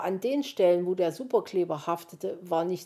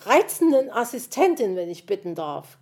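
squawking retort; 3 semitones higher, 8 dB louder than usual. A narrator's reading. Magpie yells her title back at the fox, squawking. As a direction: bawl the title back indignantly. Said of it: "krakeelte es ihm entgegen".

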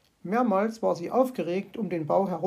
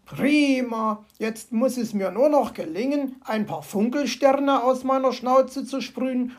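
higher, cheerful fox voice; delighted fox; 4 semitones higher, 4 dB louder than usual. Acted. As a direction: plan with glee.

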